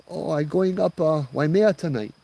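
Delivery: high-pitched auntie voice; old Hawaiian auntie. Acted. Old lady telling driver where she is headed, high auntie voice.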